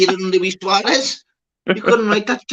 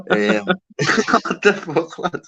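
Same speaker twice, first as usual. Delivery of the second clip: laughing exclamation; 4 semitones higher, much slower than usual. Real, not acted. Laughing at chat.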